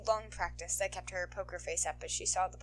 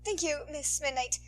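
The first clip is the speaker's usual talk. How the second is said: put-on higher, bright thankful kid voice; grateful boy; 8 semitones higher, 4 dB louder than usual. Boy thanking the heroine, grateful. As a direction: thank her sincerely.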